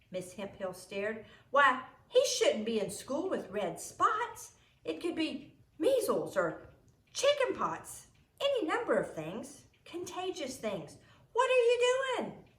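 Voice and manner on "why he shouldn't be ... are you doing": rising higher and louder, alarmed; a nurse growing more and more worried. Acted. Nurse alarmed about spots.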